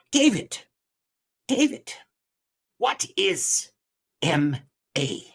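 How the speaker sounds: put-on high, loud, halting Ugandan accent; thick Ugandan accent. Guest preacher puzzling aloud to his host, thick Ugandan accent. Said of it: "in his thick Ugandan accent".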